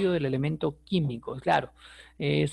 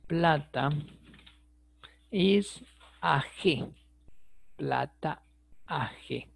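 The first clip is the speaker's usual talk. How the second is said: slow spelled-out letters; 3 dB quieter, much slower than usual. Shown as a demonstration. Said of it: "Así que tengan cuidado".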